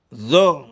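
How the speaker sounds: زو begun with a held voiced th; زو with tongue between the teeth; soft dalet. Shown as a demonstration. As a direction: lean on the soft th opening زو.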